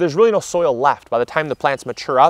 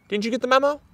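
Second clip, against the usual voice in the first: higher-pitched teasing scold; mock exasperated scolding; 10 semitones higher, faster than usual. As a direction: pitch it up like you're chiding a naughty kid. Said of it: "I tried talking them out of growing".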